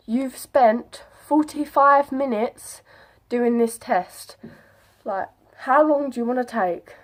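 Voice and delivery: slow, exasperated retold complaint; annoyed. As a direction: drag out each word in mild annoyance. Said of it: "it really began to annoy us".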